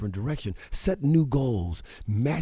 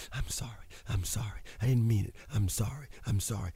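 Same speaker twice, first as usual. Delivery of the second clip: softer, half-whispered mock sorry; mock apologizer; 5 dB quieter than usual. Host mocking people who keep apologizing, softly whimpering sorry. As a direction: imitate someone mumbling apologies. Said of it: "So many people are spending time being sorry".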